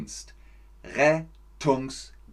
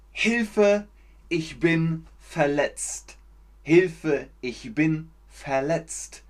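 calling for help; 3 semitones higher, slower than usual. Shown as a demonstration. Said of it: "Korrekte Grammatik?".

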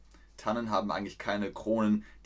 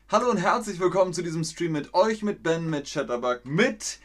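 lively greeting; 7 semitones higher, 5 dB louder than usual. Real, not acted. Stream greeting, upbeat restart.

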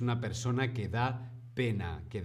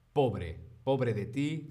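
slow sympathetic pobre; slower than usual. Shown as a demonstration. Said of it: "podemos decir pobre".

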